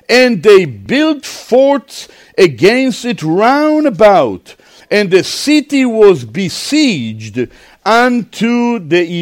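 slow, declaimed Bible reading; stately, slow scripture recitation. A narrator's reading. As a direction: draw the verses out for a congregation.

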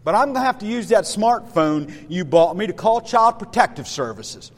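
mock-stern child lecturing dad; stern son. Son threatens dad with court, acted sternness. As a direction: deliver a child's solemn, emphatic ultimatum. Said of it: "your son rather sternly says to you".

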